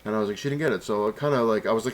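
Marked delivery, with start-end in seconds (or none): 0.4-0.8 higher, mildly exasperated retold protest; annoyed. Telling staff she didn't get her print, annoyed. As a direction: imitate your own irritated insistence. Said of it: "I was getting really annoyed".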